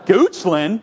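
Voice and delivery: "Goochland?" laughed out, rising; laughing disbelief. Retold or imitated. Pastor amazed his old student lives in Goochland, laughing. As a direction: say it through a laugh.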